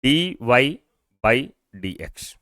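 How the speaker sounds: "dy" then a pause, then "by dx"; read along slowly. Shown as a demonstration. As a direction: read "dy by dx" with the class, word by word. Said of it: "पढ़िए मेरे साथ".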